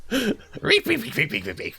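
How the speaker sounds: high, strange voice chanting reap; high creepy crow voice. Shown as a demonstration. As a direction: chant it like an eerie scarecrow. Demoing voice line, odd voice.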